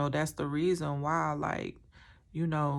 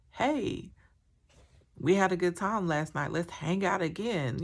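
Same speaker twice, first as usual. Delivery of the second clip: mocking. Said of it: "he had the audacity".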